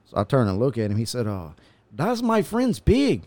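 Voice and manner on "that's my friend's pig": very high, slow mock Hispanic accent. Passerby explains whose pig it is, mock Hispanic accent. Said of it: "Is that your Hispanic accent?".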